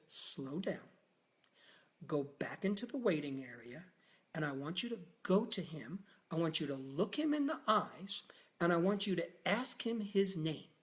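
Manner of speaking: calm, steady instruction; calm doctor steadying a panicked helper; grounded and clear. Retold or imitated. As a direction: settle him down gently. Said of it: "he was very grounded, and he was very clear".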